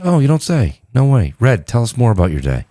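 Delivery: calmly humoring someone's chat; calming voice. Retold or imitated. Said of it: "was that your seductive voice or calming voice?".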